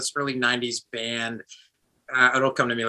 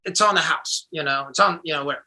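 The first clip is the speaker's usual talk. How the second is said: bar owner; 7 semitones higher, 6 dB louder than usual. Retold or imitated. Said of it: "he's like".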